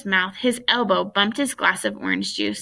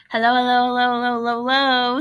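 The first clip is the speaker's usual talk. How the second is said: as fast as she could; 3 semitones higher, 3 dB louder, faster than usual. A narrator's reading. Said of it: "said Lori as fast as she could".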